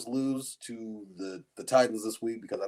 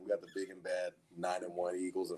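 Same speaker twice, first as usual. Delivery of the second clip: sarcastic. Pretend. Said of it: "the speaker is a thousand percent being sarcastic".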